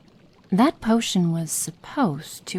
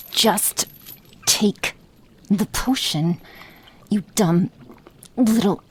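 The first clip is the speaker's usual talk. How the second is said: louder, irritated insistence; impatient forcing; 2 semitones higher, 4 dB louder, slower than usual. Acted. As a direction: push it on them. Forcing potion down.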